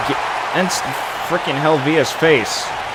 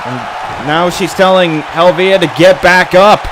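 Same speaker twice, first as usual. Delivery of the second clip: wrestling commentator. Real, not acted. Calls the match play-by-play.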